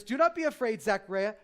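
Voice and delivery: loud, high proclamation; booming angel. Acted. An angel announcing to Zechariah, booming. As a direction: call it out like a heavenly herald.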